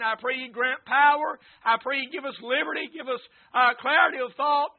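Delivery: steady, running pastoral prayer; earnest public prayer. Real, not acted. Preacher thanking the Lord before the sermon, earnest prayer. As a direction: pray aloud in an unbroken, sincere flow.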